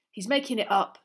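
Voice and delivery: loud, indignant retort; savage outburst. Acted. Ron dismisses Malfoy's story, savagely. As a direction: spit it out loudly. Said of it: "said Ron savagely".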